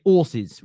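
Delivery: "horses" said "'orses", no h; dropped h. Shown as a demonstration. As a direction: drop the h in "horses". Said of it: "It's an accent".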